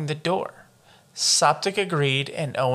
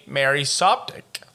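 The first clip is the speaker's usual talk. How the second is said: hiccup in the name; slower than usual. Real, not acted. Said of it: "I had a hiccup there".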